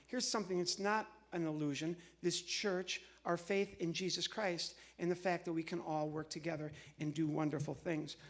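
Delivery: ordinary talk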